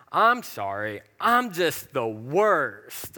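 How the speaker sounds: slow, drawn-out mock whine of self-pity; couple's joking tagline, whined slowly in mock self-pity. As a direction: drag it out like a playful guilty sigh. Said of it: "we would always say this".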